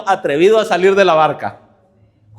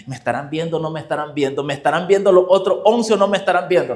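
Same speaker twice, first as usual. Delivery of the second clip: worried Peter; 2 semitones lower, faster than usual. Retold or imitated. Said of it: "empieza a preocuparse y dice".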